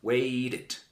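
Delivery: "Wait it" with "it" as a separate syllable; two-syllable "Wait it". Shown as a demonstration. Teacher demonstrating the extra syllable, clear. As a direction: add a full "it" after "wait". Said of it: "other syllable".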